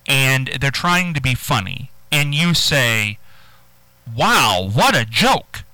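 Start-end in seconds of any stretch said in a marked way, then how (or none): 4.1-5.6 upbeat, lifted wow, genuinely impressed; bright-pitched, lively compliment on a joke; sincerely amused praise. Shown as a demonstration. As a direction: say it like it's really very funny. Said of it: "Hey, that's very funny".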